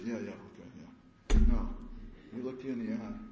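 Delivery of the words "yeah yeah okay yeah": dismissive yeahs. Shown as a demonstration. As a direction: wave it off without listening. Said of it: "listened like this?".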